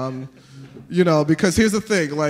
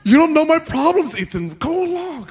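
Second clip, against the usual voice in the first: high defensive whine; 10 semitones higher than usual. Retold or imitated. Comic hurt retort to kid.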